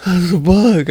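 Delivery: high, whimpering kid imitation; mock panic. Dad imitating his bug-scared son, panicky.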